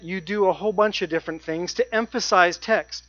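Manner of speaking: ordinary delivery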